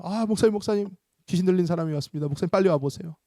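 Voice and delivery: lightly acted flustered pastor calling for help. Pastor runs to fetch the exorcist, flustered and hurried. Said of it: "막 어떤 목사님이 뛰어와요".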